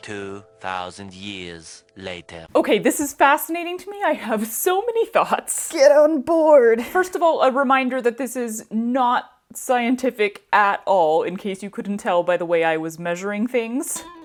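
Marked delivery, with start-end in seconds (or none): 0.0-2.4 very quiet, very low, deep, hushed narrator voice. Going off to do some quick math, in a SpongeBob narrator voice. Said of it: "[Spongebob voice]".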